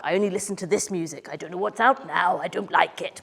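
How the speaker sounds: lightly voiced closed-minded listener; a hint of a stubborn grumble; mock stubborn music snob; stuck-in-their-ways grump. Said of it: "people get really stuck".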